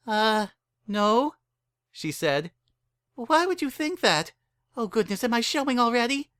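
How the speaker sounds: a startled innocent fretting; flustered young mare. Acted.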